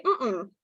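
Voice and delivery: hummed no; closed-mouth "no" in two short hums; disagreeing mm-mm. Shown as a demonstration. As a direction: nonverbal refusal hum. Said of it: "that means no".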